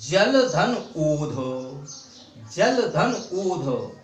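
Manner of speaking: जल धन ओध said slowly, word by word; slow breakdown. Shown as a demonstration. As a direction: spell out the split slowly for students. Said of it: "तो इसको कैसे तोड़ेंगे?". (धीरे-धीरे संधि विच्छेद)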